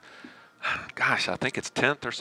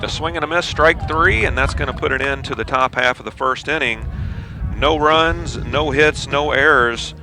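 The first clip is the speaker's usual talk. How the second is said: play-by-play; 3 semitones higher than usual. Acted. Live baseball play-by-play.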